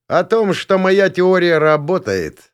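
high, slow gurgle, pleased; gurgling tentacle alien. Acted. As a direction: bubble the words out like an alien. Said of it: "довольно пробулькал я".

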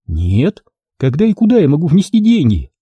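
a lightly voiced scheming woman; voiced female client. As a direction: play a calculating client doubting the deal. Client agrees to pay.

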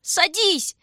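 very high, loud, scared cry; thin frightened scream. A narrator's reading. Shurka panicking as his sister hesitates, thin frightened scream. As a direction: shriek it in panic. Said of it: "закричал он тонко и испуганно".

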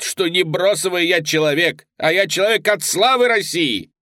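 high, loud, trembling with fury; crippled soldier raging at the commander; impassioned outburst. A narrator's reading. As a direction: hurl his pride at the mockers. Trembling cripple defends Russia.

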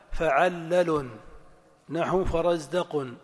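فعلل as fa-'al-la-lun, measured; match فرزدق as fa-raz-da-qun to the pattern; sound pattern. Shown as a demonstration. Teacher introduces five-letter pattern, syllables measured out. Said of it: "التنغيم الصوتي".

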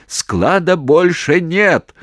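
slow, loud, high strained yell; voice-cracking shout. Acted. Commander screaming into phone that the depot is gone. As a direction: scream it until the voice breaks. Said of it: "срывая голос, закричал".

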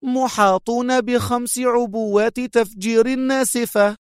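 high, cruel challenge; defiant menace; defiant cruelty. A narrator's reading. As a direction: taunt him with the threat. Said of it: "في قسوة متحدية".

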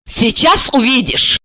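slightly ominous, drawn-out reply; ominous smile. A narrator's reading. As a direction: promise it slowly with a sinister smile. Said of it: "зловеще улыбаясь".

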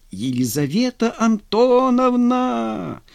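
long drawn-out high call from afar; distant cry. A narrator's reading. Vladimir calling for Lizonka in the dark garden, drawn-out distant cry. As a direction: call her name across the garden. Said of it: "донёсся далёкий крик".

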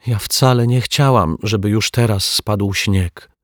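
put-on little girl explaining in a rush; a small girl anxiously justifying herself; feverish explaining. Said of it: "tłumaczyła gorączkowo Asia".

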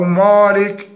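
heavy مالك ending on a bare k; silent kaf vowel. Shown as a demonstration. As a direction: drop the last i of مالك, as a mistake. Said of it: "وتسكين الكاف". (مالك بتسكين الكاف خطأ)

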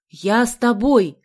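loud, slow, determined shout; shouted insistence. A narrator's reading. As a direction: shout back stubbornly over noise. Shouting back on a motorbike.

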